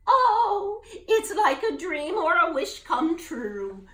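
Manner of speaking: high, loud laughing wonder; laughing delight. Acted. Gertie delighted by the rainbow, laughing. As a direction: marvel at the rainbow.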